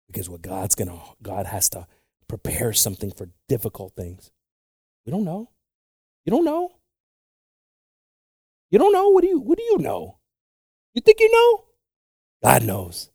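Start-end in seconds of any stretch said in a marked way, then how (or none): 5.1-11.7 rising from high to a full high shout; building shout. Real, not acted. Preacher challenging the congregation, building to a shout.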